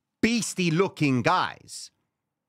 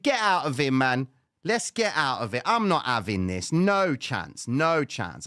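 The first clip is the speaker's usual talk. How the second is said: agitated outburst; 4 dB louder than usual. Retold or imitated. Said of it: "I was losing my shit".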